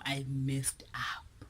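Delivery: hushed, slow, pleading whisper; whispered apology. Retold or imitated. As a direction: whisper the apology like a guilty kid. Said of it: "I was like".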